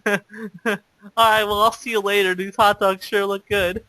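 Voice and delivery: mock-awkward goodbye, a laugh creeping in. Awkward teen leaving a girl at the hot dogs, awkwardly. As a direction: reenact a clumsy sign-off. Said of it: "I was so awkward".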